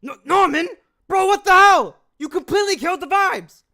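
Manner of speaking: exasperated shout at a friend; outraged yell. Acted. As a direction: yell it in disbelief. Outraged character in voice acting takes.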